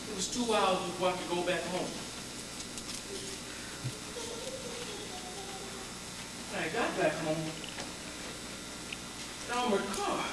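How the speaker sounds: low, very soft telling; hushed and drained; subdued recollection. Acted. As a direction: let the voice sink after the horror. Subdued aftermath of the violence.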